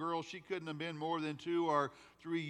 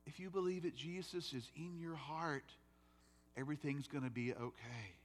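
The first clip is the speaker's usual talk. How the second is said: put-on 1 comforting child; 6 dB quieter than usual. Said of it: "And I said".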